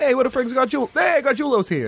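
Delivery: high, laughing Jersey-guy call; new jersey accent. Retold or imitated. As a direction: shout it like a Jersey buddy. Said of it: "I bet they're like".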